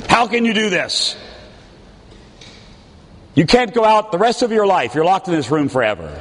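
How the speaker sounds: rising in mock fury, fast at the end; mock angry parent. Parent scolds rebellious teenager, mock angry. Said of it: "The first reaction usually is anger".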